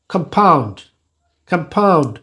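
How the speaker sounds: "কম্পাউন্ড" with the unstressed syllable free of any puff; unaspirated unstressed syllable. Shown as a demonstration. Teacher repeating an example, "কম্পাউন্ড" with unaspirated unstressed syllable. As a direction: say "কম্পাউন্ড" falling, weight on POUND, first syllable light. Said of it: "aspiration হবে না".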